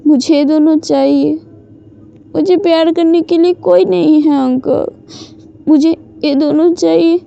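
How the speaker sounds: a hint of a crying girl begging her uncle; tearful pleading. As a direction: plead with the uncle through held-back tears. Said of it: "फिर से रोने लगते हैं".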